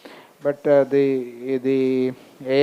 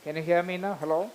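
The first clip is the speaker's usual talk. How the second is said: barely audible; 3 semitones higher, 7 dB quieter than usual. Real, not acted. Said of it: "Some more, some more".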